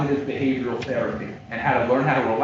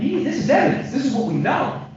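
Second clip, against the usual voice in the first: high-pitched, urgent appeal; impassioned insistence; 11 semitones higher than usual. Real, not acted. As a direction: drive it home in a raised pitch. Lawyer's impassioned appeal to jury.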